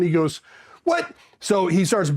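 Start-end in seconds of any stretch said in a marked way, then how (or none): 0.8-1.1 mock incredulous what. Officer to clueless sentry, mock incredulous. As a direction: imitate a startled, high "what".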